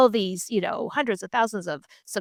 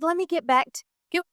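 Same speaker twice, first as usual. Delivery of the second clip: laughing stall; 8 semitones higher, faster than usual. Retold or imitated. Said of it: "and I said".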